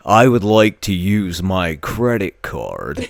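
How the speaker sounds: slow, careful mock British accent; imitated British kid. British kid playing Call of Duty, mock British accent. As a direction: stretch it out in a put-on British voice. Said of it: "like, a British kid".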